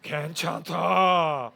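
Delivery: slow loud line for the congregation to repeat; slow loud demo. Shown as a demonstration. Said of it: "빨리 해주세요".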